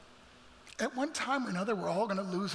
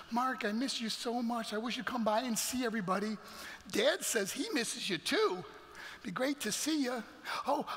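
little sister's voicemail; 3 semitones higher than usual. Retold or imitated. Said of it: "she'd leave me the longest messages".

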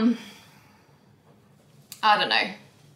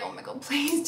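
laughing exasperation; 7 semitones higher than usual. Retold or imitated. Mocking her own exasperation.

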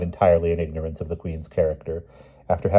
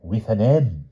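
high, slow, teasing hint; coy hint; 6 semitones higher, 6 dB louder, much slower than usual. A narrator's reading. The king hinting at a name to knights, coy and slow. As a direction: drag out the clue like a riddle. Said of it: "said the king".

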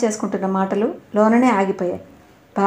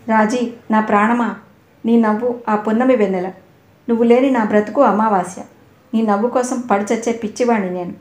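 mock romantic lover; 3 dB louder than usual. Teacher mocking Murali's sweet talk to Raji, hammed up. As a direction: parody a boy's flowery love talk. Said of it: "అంటాడా?".

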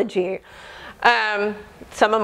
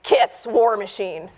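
laughing answer; 3 semitones lower than usual. Retold or imitated. Naming her angry music choice.

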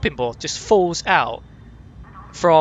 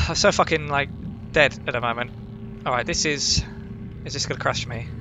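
ordinary talk, nothing marked

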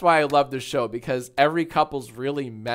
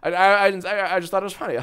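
imitating a stammering denial with chuckles; nervous laughter; 3 semitones higher than usual. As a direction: deny it haltingly, ending in a put-on nervous laugh. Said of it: "it's that nervous laughter".

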